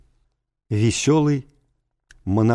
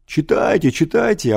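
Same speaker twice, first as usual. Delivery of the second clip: gleeful roar; 7 semitones higher, 4 dB louder than usual. A narrator's reading. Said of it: "обрадованно заревел класс".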